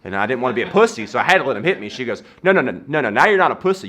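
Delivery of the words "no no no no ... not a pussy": higher, louder mock scolding; exasperated correction. Girlfriend corrects him for getting punched, exasperated. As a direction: imitate a girlfriend cutting him off.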